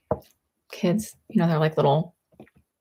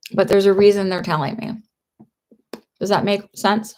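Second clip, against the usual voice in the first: talking while crunching candy; words around a crunchy bite. Real, not acted. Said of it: "I'm crunching on a piece of candy".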